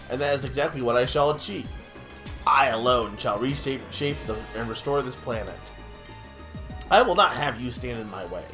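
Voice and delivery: gloating villain, lightly voiced; smug villain. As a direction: taunt like a cartoon villain.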